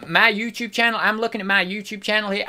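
impression slipping into a Southern accent; hint of unintended Southern twang; accent drifting southern. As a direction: let the accent slide accidentally into Southern. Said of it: "I don't know why it's going southern".

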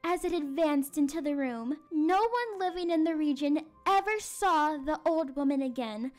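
measured, suspenseful storytelling; spooky story narration. A narrator's reading. Teacher reads the eerie midnight part to class, suspenseful storytelling. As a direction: build the midnight suspense for children.

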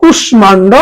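কুষ্মাণ্ড as "kush-mando"; sounded m. Shown as a demonstration. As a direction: say কুষ্মাণ্ড with the m pronounced. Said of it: "কিন্তু হবে কুষ্মাণ্ড".

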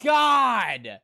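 loud, very slow drawn-out oh my god; shocked cry. Real, not acted. Anime reactor crying out at a shocking scene. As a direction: stretch it out in horror.

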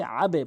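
"আবে" with the b released in a short e-like push; qalqalah bounce. Shown as a demonstration. Teacher shows the rule, echoing downward push on "আবে". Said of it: "তখন আপনি ধাক্কা দিয়ে পড়বেন".

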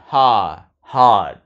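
ordinary delivery

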